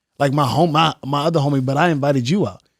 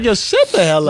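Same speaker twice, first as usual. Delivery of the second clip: exasperated; 6 semitones higher, 3 dB louder than usual. Retold or imitated. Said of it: "And it's like".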